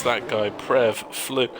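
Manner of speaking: hiccuping mid-commentary; words broken by hiccups. Real, not acted. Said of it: "I'm getting a hiccup attack".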